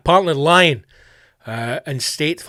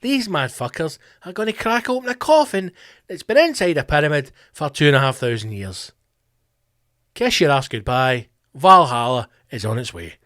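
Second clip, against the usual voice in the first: mock news report. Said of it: "went live to the scene and went".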